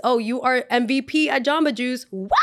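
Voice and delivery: sarcastic wow with a laugh; sarcastic praise. Retold or imitated. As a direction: congratulate her with fake cheer. Sarcastic congratulations.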